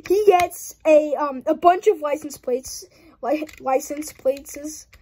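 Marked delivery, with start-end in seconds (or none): 3.2-4.9 stretched out. Real, not acted. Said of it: "I don't know why I did that".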